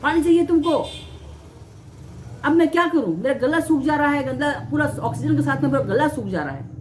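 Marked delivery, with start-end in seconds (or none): 0.0-0.9 mild mock yell, pitched up; retold scolding yell. Staff scolding a thirsty kidney patient, mild mock yell. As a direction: imitate an indignant telling-off, half-strength. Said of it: "वो लोग चिल्लाते थे".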